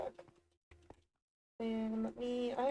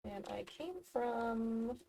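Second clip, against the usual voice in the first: hushed whisper to self; 7 dB quieter than usual. Real, not acted. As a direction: whisper under your breath. Muttering to self while playing.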